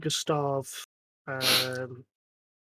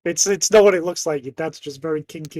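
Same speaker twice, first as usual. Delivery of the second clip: flustered excuse; 11 dB louder than usual. Acted. Acted excuse to the kids.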